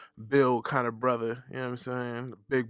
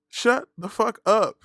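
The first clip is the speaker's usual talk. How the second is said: slow, loud, raised-pitch command; emphatic shut-down; 10 semitones higher, 6 dB louder, slower than usual. Acted. Host silencing skinny critics, loud word-by-word emphasis. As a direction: punch each word apart, louder. Repeats it harder to same critic.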